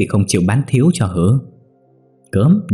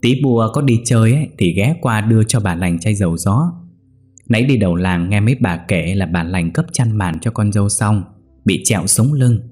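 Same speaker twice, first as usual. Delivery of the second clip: sly scheming voice; 2 semitones higher than usual. Acted. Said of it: "cất giọng quỷ quyệt".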